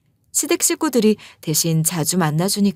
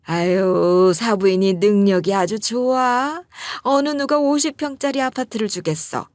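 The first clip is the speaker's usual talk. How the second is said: gushing praise. Retold or imitated. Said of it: "우리 엄마를 이렇게 칭찬하고".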